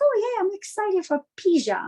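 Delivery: put-on eager child saying pizza wrong; young self mispronouncing. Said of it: "I'm like".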